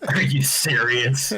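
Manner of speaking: slow, scornful whispered disbelief; mock whisper. Snobby record store clerk sneering at a buyer of a pop singer's record, whispered slowly.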